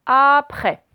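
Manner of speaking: "après" slow and loud, first sound stretched; "après" said slowly and emphatically; drawn-out word model. Shown as a demonstration. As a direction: stretch out the start of "après" for learners. Teacher sounds out new word.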